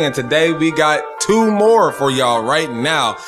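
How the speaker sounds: hyped radio host greeting the listeners; radio show intro. Real, not acted. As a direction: roll through the show intro with swagger.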